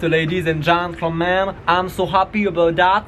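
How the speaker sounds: hammed-up English accent, slow; mock English accent. Vlogger announcing his Drag Contest news, in a mock English accent. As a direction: put on your best English accent, playfully. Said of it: "J'ai pris mon meilleur accent anglais".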